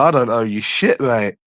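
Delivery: a light go at Cockney; attempted Cockney. Streamer rehearsing the line for the steak date, attempted Cockney. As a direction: try on a Cockney accent lightly. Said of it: "gonna try and say it in, like, a proper, proper Cockney".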